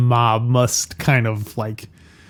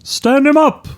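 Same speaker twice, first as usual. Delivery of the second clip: much higher, slightly off copied cop bark; McCluskey voice; 12 semitones higher, 3 dB louder, slower than usual. Acted. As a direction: bark it like a crooked cop, half-right. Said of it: "That's my regular, my real voice".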